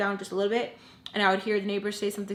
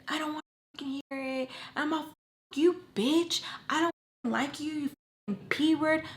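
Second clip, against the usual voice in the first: mock angry; 7 semitones higher than usual. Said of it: "she is pissed. And he's like".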